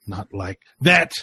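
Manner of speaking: loud, slow theatrical vampire; dramatic Dracula. Acted. Dracula taunting Sam, dramatic. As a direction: declaim it like a menacing count.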